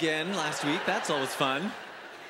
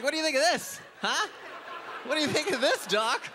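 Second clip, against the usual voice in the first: put-on leering old man; 8 semitones higher than usual. Old man showing lesion.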